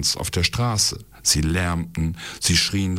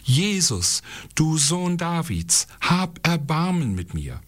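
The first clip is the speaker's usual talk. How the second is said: much higher, sustained pleading call; crying out louder; 9 semitones higher than usual. A narrator's reading. Blind beggar to Jesus over the crowd, insistent cry. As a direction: call out high and insistently for mercy. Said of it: "schrie noch viel lauter".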